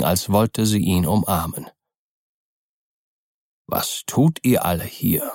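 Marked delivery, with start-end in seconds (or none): 3.7-5.3 a little annoyed. Acted. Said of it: "etwas verdrießlich".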